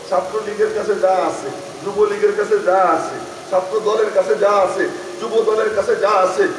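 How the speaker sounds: rhythmic listing, climbing steadily in pitch and force; sermon oratory gathering force; building preaching list. Acted. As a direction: build each item toward a climax.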